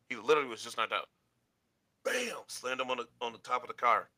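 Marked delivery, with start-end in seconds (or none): 2.0-2.3 high-pitched "bam" for an impact; storyteller's high impact word; imitated slam. Imitates a body being slammed.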